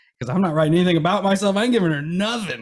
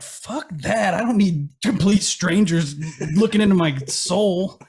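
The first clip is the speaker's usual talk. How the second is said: tag; 3 semitones higher, slower than usual. Retold or imitated. Retold refusal of a tarot reading.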